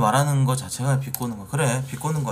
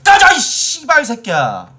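furious shout; 8 semitones higher, 7 dB louder than usual. Real, not acted. Streamer yelling at a troll he is banning, loud and furious. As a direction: roar the insults at him with real fury. Streamer yells at banned commenter.

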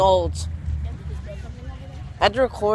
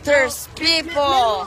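slow shout; 5 semitones higher, much slower than usual. Real, not acted. Excited pointing out people.

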